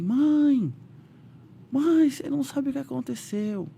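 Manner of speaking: high, eager call to mom; excited news. Retold or imitated. Teen son on the payphone to his mother, high and excited. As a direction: burst out with the big news.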